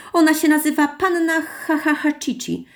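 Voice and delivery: high-pitched clown insisting on a silly name; showy, high clown correction; insistent clown. A narrator's reading. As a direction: insist comically, playing out the ha-ha-ha. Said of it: "upierał się klaun".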